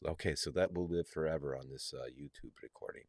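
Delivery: rough, scratchy raspy voice. Real, not acted. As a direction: speak through a raspy throat. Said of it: "sorry for the raspy voice".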